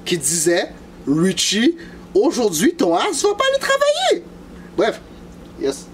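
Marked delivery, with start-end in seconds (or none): 1.1-4.2 mysterious force voice. Retold or imitated. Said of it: "il y a une force qui disait".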